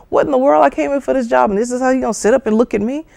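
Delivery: can't believe how they sit; indignant disbelief. Retold or imitated. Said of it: "you would be thinking".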